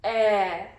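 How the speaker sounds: "E" as in bed, held alone; short E sound. Shown as a demonstration. Teacher demonstrates the vowel sound, short "E" as in bed. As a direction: say "E" as an isolated short vowel, drawn out. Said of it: "It's a short sound".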